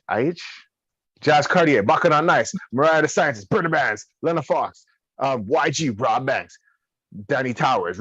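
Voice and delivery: hard sell ad read; commercial voice. Acted. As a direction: hype it like a radio ad. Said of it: "my commercial voice".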